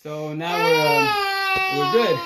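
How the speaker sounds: fighting back tears, voice cracking high; real choked-up crack mid-sentence; voice breaking. Real, not acted. Choking up telling fans he's good.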